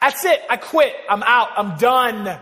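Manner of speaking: full-throated, very loud, high-pitched yelling. Retelling yelling at God in the middle of a college campus: retelling yelling out loud. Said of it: "I yell out loud to God".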